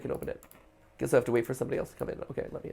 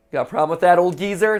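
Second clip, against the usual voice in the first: louder, higher confrontational challenge; acted anger; 5 semitones higher, 8 dB louder than usual. Young man challenging an old resident, acted anger. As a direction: throw it out as a mock-tough challenge. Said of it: "You made an angry face".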